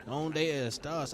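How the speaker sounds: slow, drawn-out mock Spanish call; mock Spanish villager. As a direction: echo the villager, slowly and teasing. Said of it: "imitates enemy villager's call".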